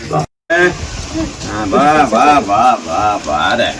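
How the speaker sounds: low, soft coaxing; gently calm a weeping woman; soothing. Real, not acted. MLA coaxing a crying old woman to come to him, low and soft.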